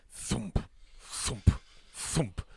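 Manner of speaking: heavy footsteps as spaced single thumps; imitated footfall thumps. A narrator's reading. Narrator voicing the big wolf's approach, spaced thumps.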